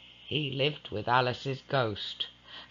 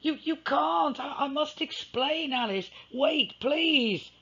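higher, stammering plea; pleading; 13 semitones higher than usual. Acted. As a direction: beg her to wait and listen. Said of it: "Edward pleaded".

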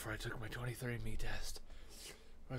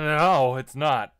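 loud mock denial; 2 semitones higher, 16 dB louder, much slower than usual. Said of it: "and then".

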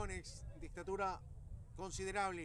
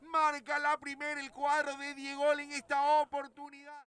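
long drawn-out goal call, much louder; goal shout; 5 semitones higher, 11 dB louder, slower than usual. Acted. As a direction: stretch the goal cry long and loud. Goal call after score.

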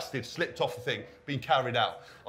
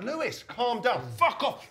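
mock exasperated plea; 8 semitones higher, slower than usual. Quoting himself calming Lewis.

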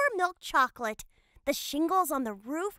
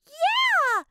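shouted agreement; 9 semitones higher, 4 dB louder than usual. Acted. Emma backs up Kate.

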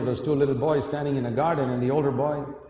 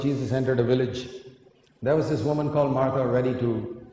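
ordinary talk

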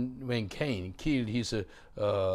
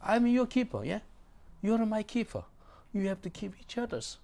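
emphatic proclaiming; 11 semitones higher, 4 dB louder than usual. Real, not acted. Preacher proclaims answer to Cain.

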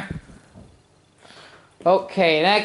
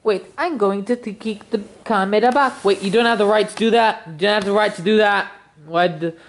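lightly put-on Italian accent; a touch of cartoon Italian accent; Mario; 3 semitones higher, faster than usual. Mario introduces himself as main character, Italian accent. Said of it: "stop doing the Italian voice".

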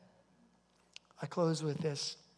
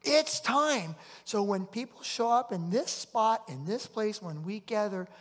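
much higher and louder call to action; rallying cry; 5 semitones higher, 8 dB louder than usual. Real, not acted. Pastor rallying the church before prayer, loud and high. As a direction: rouse the church to act.

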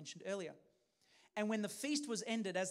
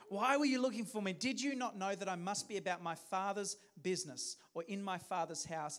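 clever retort; 4 dB louder than usual. Shown as a demonstration. Boy Jesus answering his worried parents, pointedly louder. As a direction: throw the question back smartly. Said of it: "Smart, smart boy".

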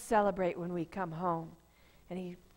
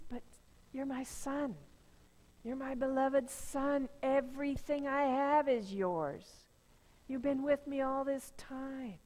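tender father; 3 semitones higher than usual. Acted. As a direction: gently call him back as your son. Father gently answers older son.

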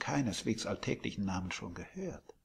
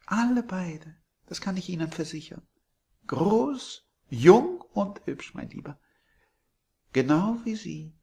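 put-on high, much louder gushing old landlady; sweet landlady; 6 semitones higher, 8 dB louder than usual. A narrator's reading. Landlady surprising Billy from behind, high and gushing. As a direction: coo it like a doting hostess.

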